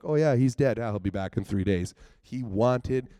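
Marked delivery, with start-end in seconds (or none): 0.0-1.9 robotic disciples. Retold or imitated. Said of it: "they just walk through it robotically".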